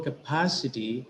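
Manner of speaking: capacity with an accented second syllable PA; capacity with its weight on pa; stress on PA. Shown as a demonstration. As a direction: make the PA stand out in capacity. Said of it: "it is the syllable pa".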